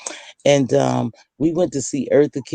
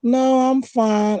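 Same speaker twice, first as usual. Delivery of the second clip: retold refusal; 8 semitones higher, much slower than usual. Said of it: "I would always go".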